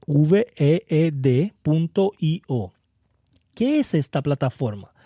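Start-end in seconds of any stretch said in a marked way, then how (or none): 0.1-2.7 slow, separate letters for a web address; spelling out. Shown as a demonstration. Host spells a platform's name for listeners, letter by letter. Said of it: "Vid se escribe".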